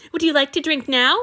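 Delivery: high, loud, thrilled burst; light up with joy; eager delight. Acted. Boy thrilled his lord will drink from him, high eager burst.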